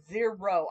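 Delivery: "zero" with every sound spelled out, slow and firm; deliberate, careful "zero"; carefully enunciated. Shown as a demonstration. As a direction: say "zero" crisply, both syllables clear and slowed. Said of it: "I'm very careful to really enunciate them".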